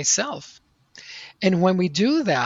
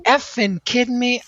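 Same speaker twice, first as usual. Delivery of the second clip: high, incredulous blurt of disbelief; stunned outburst; 7 semitones higher, 3 dB louder than usual. Retold or imitated. Standing up in the ballroom, to the speaker: high shocked outburst.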